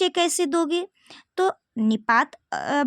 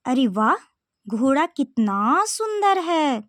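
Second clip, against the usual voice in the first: acted delight. Shown as a demonstration. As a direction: show wonder at the horse. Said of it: "जैसे". (धीमा, हैरानी भरा उद्गार)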